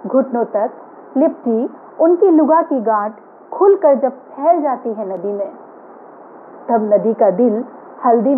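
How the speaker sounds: measured poetry reading, phrase by phrase; poem recitation. Acted. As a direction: recite your poem with deliberate pauses between images. Recites her own poem to audience. (कविता पाठ, ठहर-ठहर कर)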